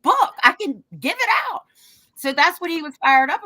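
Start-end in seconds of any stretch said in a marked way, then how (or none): 0.0-1.6 defiant boast. Retold or imitated. Defiant retold boast, rising.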